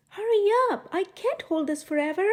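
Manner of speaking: a strained crook rushing his partner; mild mock grumble; grumbling burglar. A narrator's reading. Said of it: "one burglar grumbled".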